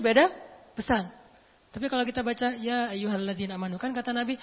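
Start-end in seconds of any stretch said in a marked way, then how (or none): 2.6-3.8 sad recitation. Shown as a demonstration. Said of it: "Beda itu, beda intonasi".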